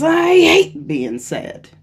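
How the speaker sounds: high, slow whiny voice; mock a person fussing over feelings; whiny complainer. Imitating someone who rejects their anger, whiny and high. Voicing someone judging emotion.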